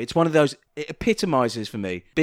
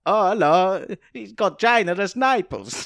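mock Italian accent; 4 semitones higher than usual. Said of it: "an Italian who was obsessed with bosoms".

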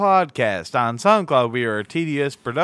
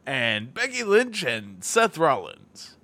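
announcer voice. Pretend. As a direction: ring announcer calling the card. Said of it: "How's that for my announcer voice?".

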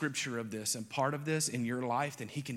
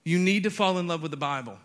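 louder, higher declaration; emphatic preaching; 4 semitones higher, 6 dB louder than usual. Acted. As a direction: proclaim it with force. Repeats line at full force.

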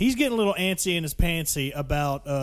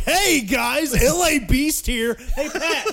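video will greeting; 8 semitones higher, 5 dB louder, much slower than usual. Pretend. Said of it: "it's just like".

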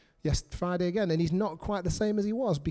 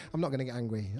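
hushed, meek self-talk; timid murmur; 8 semitones lower, 6 dB quieter, faster than usual. Acted. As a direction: lower and softer, a nervous little reply. Mock-timid listener voice.

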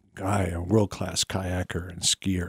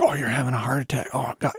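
panicked; 3 semitones higher, faster than usual. Retold or imitated. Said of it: "it's just like".

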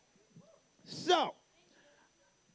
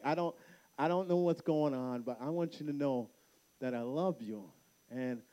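lower, subdued fatherly voice; tender reassurance; 6 semitones lower, 4 dB quieter than usual. Retold or imitated. Dad tells daughter he loves her, retold tenderness. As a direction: act out gently comforting a child.

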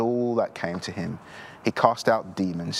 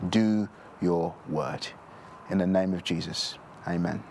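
closing prayer. Acted. Pastor prays over the congregation to close, in a hushed prayer voice. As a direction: pray to the Father for the congregation, gently.

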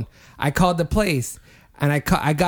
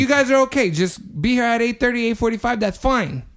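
reassuring host; 7 semitones higher than usual. Retold or imitated. Restaurant staff retold reassuring.

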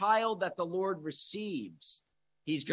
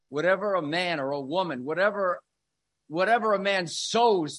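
rising louder on each whatever; building emphatic preaching; 6 dB louder than usual. Acted. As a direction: hammer the repeated whatever harder each time. Preacher builds quoting Paul.

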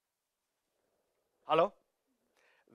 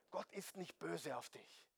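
much softer, hushed reassurance; 18 dB quieter than usual. Real, not acted. Preacher reassuring the congregation about God, very softly. Softly reassures, then repeats after calling attention.

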